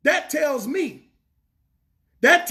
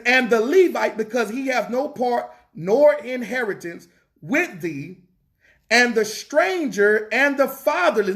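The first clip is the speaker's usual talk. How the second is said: slow reading. Real, not acted. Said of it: "I'm gonna read this for y'all slow".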